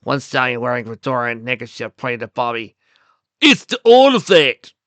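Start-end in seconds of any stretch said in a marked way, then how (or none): 3.4-4.8 high, loud henchman's cry; keen exclamation. A narrator's reading. Biff pointing at Bobby's club, keen exclamation. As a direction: call it out slow, high and keen. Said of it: "his voice keen and so insulted".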